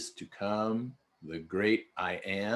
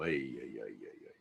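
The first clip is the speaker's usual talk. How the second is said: dismayed groan; 9 semitones lower, 12 dB quieter, much faster than usual. Real, not acted. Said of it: "What a thing to say".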